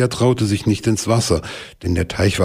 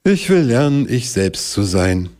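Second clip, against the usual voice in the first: said aloud; 4 semitones higher than usual. Acted. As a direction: announce the big idea. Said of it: "sagte laut". (laut verkündet)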